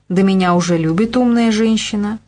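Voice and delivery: light playful snap back; cheerful retort. Acted. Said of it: "Игнат весело огрызнулся". (весело огрызаясь)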